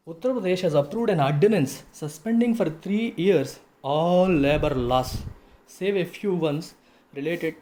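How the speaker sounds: slow, deliberate read-out of a news text; measured teacher reading aloud; article read-aloud. Real, not acted. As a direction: read it out phrase by phrase, slowly.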